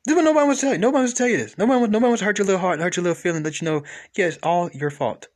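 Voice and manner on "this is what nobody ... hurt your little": high, loud insistence; loud preaching. Real, not acted. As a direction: preach it loudly.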